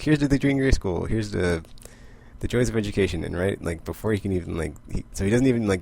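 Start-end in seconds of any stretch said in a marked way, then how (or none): 0.0-3.2 raised, louder, higher toast; mock grand toast. Wolverine toasts the school with the bamfs, higher and louder. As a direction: lift the glass and proclaim it higher and louder.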